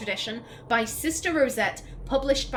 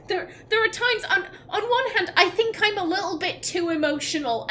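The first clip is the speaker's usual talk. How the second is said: laughing; 8 semitones higher than usual. Real, not acted. Laughs at own emotion.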